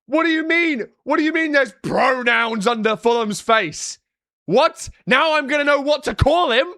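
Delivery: hammed-up sarcastic disbelief; sarcastic outrage. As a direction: fake fury to poke fun at woke playoffs. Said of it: "Sarcasm, by the way".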